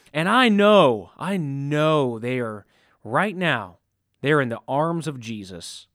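slow, gentle minister consoling the family; lightly voiced minister, comforting; soothing minister voice.

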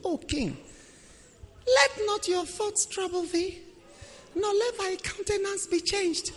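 soothing queen. Retold or imitated. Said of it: "she spoke".

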